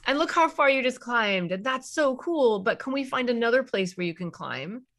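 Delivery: put-on upbeat praise for a child; encouraging parent. Shown as a demonstration. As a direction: cheer the kid on gently. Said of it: "you have to be able to go".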